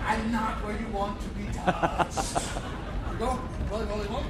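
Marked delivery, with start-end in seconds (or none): 0.1-2.4 slow suggestive threat. Pretend. Cheeky threat punchline. 2.4-3.4 slow teasing whisper. Pretend. Playful menace.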